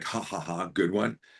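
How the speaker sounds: mock spoken laugh, ha ha ha. Retelling how a member of a jump unit reacted to his joke, imitating a man's laugh. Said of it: "but he laughs like".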